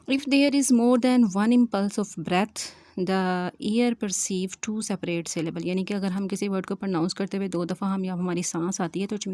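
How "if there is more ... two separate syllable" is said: slow, spaced-out dictation of a definition. Acted. Teacher dictating the monophthong definition to students, slowly and deliberately. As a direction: read each phrase slowly so students can write it down.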